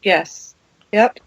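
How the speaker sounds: talking through hiccups; words broken by hiccups. Real, not acted. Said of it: "I have the hiccups now".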